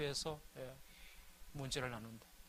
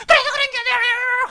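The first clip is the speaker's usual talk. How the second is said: shrill, much higher and louder retort; mock wife shout; 12 dB louder than usual. Wife snapping at her preachy husband, mock shrill shout. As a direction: snap back as the irritated wife.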